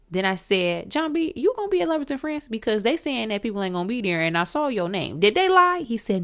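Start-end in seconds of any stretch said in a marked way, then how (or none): 0.9-5.9 excited questioning. Retold or imitated. Excitedly questioning her idol.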